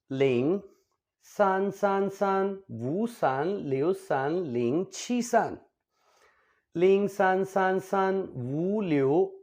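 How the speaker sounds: each digit said out in Mandarin. Shown as a demonstration. Teacher reading a number aloud in Chinese, digit by digit. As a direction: read the phone number digit by digit. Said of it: "देखें, आप खुद देखें".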